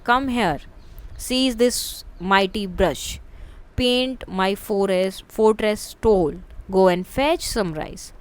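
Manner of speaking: each phrase read slowly, falling from high to low. Shown as a demonstration. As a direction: let every command drop high to low. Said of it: "voice high to low में". (धीमे-धीमे, हर वाक्यांश ऊँचे से नीचे गिरती आवाज़ में)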